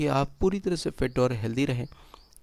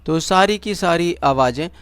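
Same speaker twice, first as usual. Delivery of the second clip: measured meditation guide with long pauses; guided meditation; 3 semitones higher, 4 dB louder than usual. Acted. Guide leading listeners into breath awareness and relaxation, guided meditation. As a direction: guide them step by step, leaving silences between instructions.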